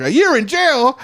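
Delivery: high-pitched incredulous yelp; acted-out astonished question; retold disbelief. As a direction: blurt it in mock shock. Retold shock at possible sentence.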